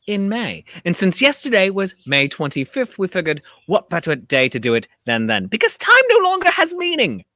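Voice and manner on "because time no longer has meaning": mock dramatic.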